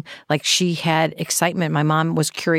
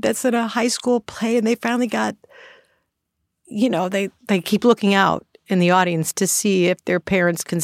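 tearful, voice breaking, pitched up; speaking through real tears; crying; 3 semitones higher than usual. Real, not acted. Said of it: "Sorry, I'm crying".

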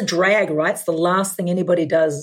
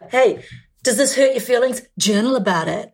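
higher-pitched, curt mock sympathy; mock tough guy; 5 semitones higher than usual. Woman playing a defiant renter to her landlord, mock tough. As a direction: toss it off as a teasing brush-off.

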